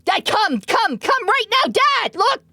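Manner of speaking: put-on high, loud excited child's shouting; imitating kid yelling. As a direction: call for dad like a thrilled little kid. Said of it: "he was yelling for Zolon".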